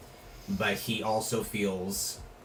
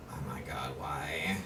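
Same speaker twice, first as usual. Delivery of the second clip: put-on valley girl voice; 6 semitones lower, 9 dB quieter than usual. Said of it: "Topaz, like, a valley girl".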